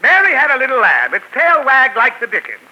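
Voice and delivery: pompous poem recital; poet recital. Acted. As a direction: declaim the verse grandly. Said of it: "Then I shall recite it".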